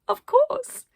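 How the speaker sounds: very high, loud theatrical; grand of course. Acted. Arcadia answers the child, very high and theatrical. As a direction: sing it out grandly.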